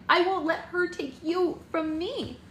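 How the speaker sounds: a bride crying out against losing him; desperate cry. A narrator's reading. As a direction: wail it, slowly, clinging on. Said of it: "Red cried".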